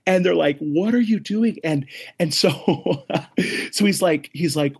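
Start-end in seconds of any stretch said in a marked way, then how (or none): 0.6-1.6 higher, incredulous retold question; milder freak-out. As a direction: ask it in restrained disbelief, ending on a rise. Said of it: "They lose their mind".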